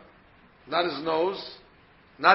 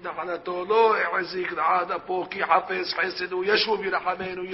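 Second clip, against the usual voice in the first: steady, even-pitched prayer recital; liturgical recitation. Shown as a demonstration. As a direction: reel off the verse from memory in one run. Recites verse by heart.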